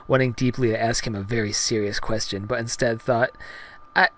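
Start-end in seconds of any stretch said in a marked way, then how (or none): 4.0-4.1 high falsetto, halting start; falter, then ask in high heroine voice; Padme, hesitant. Acted. Heroine dodging her real question, high hesitant falsetto. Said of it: "She hesitated".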